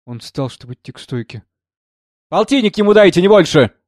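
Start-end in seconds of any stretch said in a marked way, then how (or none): 2.3-3.7 high, loud call after someone; sudden animation. A narrator's reading. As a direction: toss out a lively instruction behind him. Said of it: "Внезапным оживлением бросила она вслед". (с внезапным оживлением, вдогонку)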